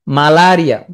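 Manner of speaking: মালারিয়া as maa-laa-ri-a, full vowels; spelling pronunciation. Shown as a demonstration. Teacher fixing a disease spelling, full-vowelled মালারিয়া. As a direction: give both a's in মালারিয়া a full "aa". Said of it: "পড়বা কি?".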